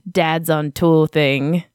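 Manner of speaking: put-on slow New Zealand accent; drawn-out Kiwi vowels. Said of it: "my New Zealand accent".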